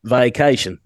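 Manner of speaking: slow Southern American accent on "vacation", stretched "vaca"; Forrest Gump voice. Shown as a demonstration. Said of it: "I sound like Forrest Gump".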